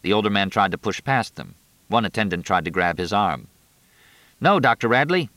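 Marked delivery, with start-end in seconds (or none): 4.4-5.3 urgent shouted warning; yelling. A narrator's reading. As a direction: call out to stop him. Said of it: "the attendant yelled".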